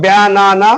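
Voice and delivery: "ব্যানানা" in three even beats, ব্যা, না, না; split into syllables. Shown as a demonstration. Teacher counting three syllables for pupils, "ব্যানানা" split evenly. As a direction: separate each syllable of "ব্যানানা". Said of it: "তিনখানা".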